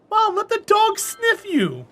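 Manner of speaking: high, slow pleading; high pleading to mom. Retold or imitated. Talking mom into letting the dog sniff her, high and pleading.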